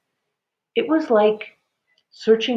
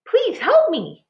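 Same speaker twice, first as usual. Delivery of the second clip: pleading; 12 semitones higher, 4 dB louder, slower than usual. A narrator's reading. Trapped voice pleading.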